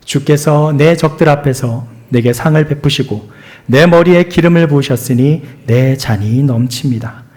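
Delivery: steady recited scripture reading; measured scripture recitation; psalm reading. Acted. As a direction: read it aloud like a congregation reciting. Congregation reads Psalm 23 together.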